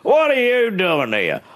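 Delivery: high, startled question; shocked homeowner. Retold or imitated. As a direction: gasp it out in disbelief. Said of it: "shocked homeowner".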